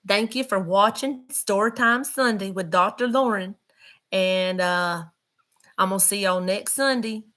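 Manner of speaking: put-on country accent, folksy sign-off; playful country-accent farewell; best country accent. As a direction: lay on a down-home country accent. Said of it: "in my best country accent".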